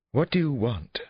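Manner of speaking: high-pitched, indignant woman's demand; angry demand. A narrator's reading. Therapist confronts police at her door, angry demand. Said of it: "she demanded".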